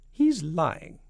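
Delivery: high, loud accusation; accusing Miss Tibbs. Acted. Miss Tibbs warning the President, accusing.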